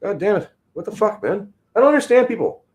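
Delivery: high, loud exasperated yell. Real, not acted. Streamer yelling at chat about his drinking, exasperated. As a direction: throw it up in disbelief.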